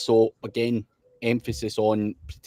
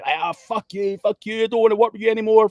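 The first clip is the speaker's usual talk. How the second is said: high, louder, fast imitated rant; mimicked angry outburst; 9 semitones higher, 4 dB louder than usual. Retelling the client cursing him out before hanging up, high fast imitated rant. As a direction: play the client losing it and hanging up. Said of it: "the guy".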